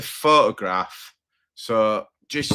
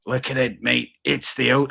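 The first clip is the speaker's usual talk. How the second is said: put-on Aussie accent; 2 semitones higher than usual. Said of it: "I can't do an Aussie accent".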